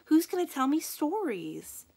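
put-on high, loud childish wail. A narrator's reading. Little Dora wailing as her friend leaves. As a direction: plead through the tears. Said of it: "she wailed".

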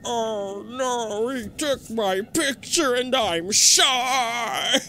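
high, very slow timid whine; shy girly voice. Pretend. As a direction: play a bashful shy girl. Voicing a shy ghost.

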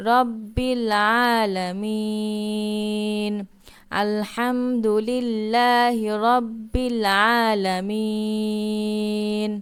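long drawn-out tilawat, final vowel held; slow recitation. Shown as a demonstration. Teacher modelling the ending for students, slowly chanted. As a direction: stretch আলামিন as a three-alif madd. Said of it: "তিন আলিফ টান দিয়ে পড়তে হবে".

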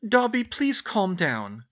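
high, slow, insistent appeal; pleading to calm. A narrator's reading. Girl to frantic elf, urgently calming him. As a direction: plead firmly over the noise.

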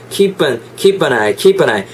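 "keep an eye" joined as "kee-pa-nai"; linked sounds. Shown as a demonstration. Teacher shows how words attach, smoothly linked. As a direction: slide the P of keep straight into "an eye". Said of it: "이렇게 붙는 거죠".

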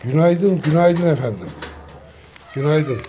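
loud greeting. Real, not acted. Cheerful morning greeting to cats.

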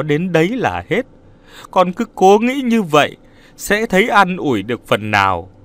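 holding back her own pain to comfort him; consoling. Acted. Mother-in-law comforting Nam despite her grief, soothing. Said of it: "cố nén để dỗ dành cậu con rể".

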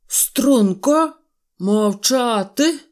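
loud, high barked order, the last word slow; stern command. A narrator's reading. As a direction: snap the troops to attention. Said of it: "грізно скомандував генерал".

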